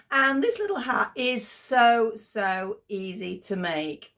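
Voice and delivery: hoarse, tired voice; a voice that's going; losing voice. Real, not acted. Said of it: "I'm losing my voice a bit".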